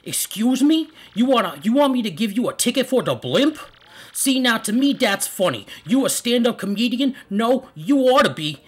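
high, loud mock Italian mobster; incredulous mob boss with an Italian accent. Player voicing the Don refusing a blimp ticket, Italian accent. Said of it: "I speak it in an Italian accent".

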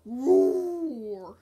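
playful, drawn-out mock tiger roar. Player voicing Tiger in a game, mock roar.

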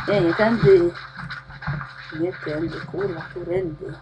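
normal talking voice

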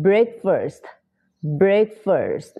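"breakfast" in two separated syllables, weak "fust"; demonstrated pronunciation. Shown as a demonstration. Teacher showing learners the word, careful pronunciation drill. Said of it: "ออกเสียงเป็น".

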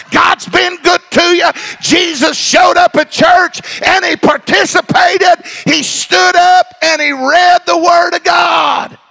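fiery preacher climbing to a shout; preaching at full force. Acted. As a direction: preach it out to the congregation.

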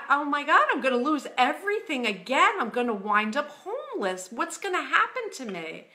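a touch of panic in the retelling; retold panic. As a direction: retell a rush of anxious thoughts. Retells her panicked worry.

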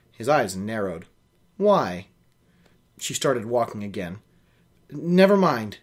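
reading a novel aloud, steady and even; story narration. A narrator's reading. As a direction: carry the listener through the scene. Reads novel aloud with character voices.

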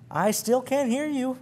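put-on old skipper roaring down from the bridge; roared back. A narrator's reading. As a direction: shout it down, still pretending. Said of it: "roared back the old man".

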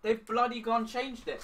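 loud, slow exasperated complaint; annoyed. Real, not acted. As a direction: drag it out, fed up. Complaining about changed recipe.

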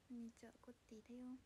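unvoiced, quick whispered hello; hushed self-introduction; whispered greeting. Real, not acted. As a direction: say hi in a secret whisper.

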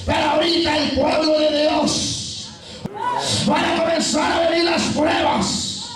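forceful, shouted exhortation; full-force preaching. Real, not acted. Preacher urging believers to keep crying out, full-force preaching. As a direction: drive every phrase home to the congregation.

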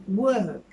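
"work." as a loud "wök"; correct work, no r. Shown as a demonstration. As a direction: round "work." on an ö, r silent. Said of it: "Hafif bir ö sesinden sonra".

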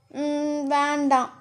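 hushed little no; reluctant refusal. A narrator's reading. Woman shakes her head and turns away, hushed. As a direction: murmur a soft refusal.

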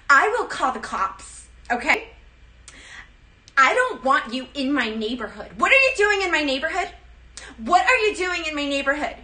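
playing an outraged neighbor; Karen voice. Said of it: "I watched a lot of Karen videos".

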